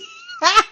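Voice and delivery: loud, very high laugh burst; high cackle. Real, not acted. Laughing at the crazy-looking cards, loud high cackle. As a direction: let out a squeal of laughter.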